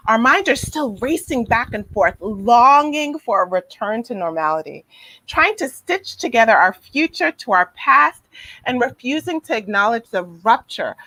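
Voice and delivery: measured, expressive read-aloud with key words leaned on. Real, not acted. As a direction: read it out like a written passage, phrase by phrase. Reads a passage aloud.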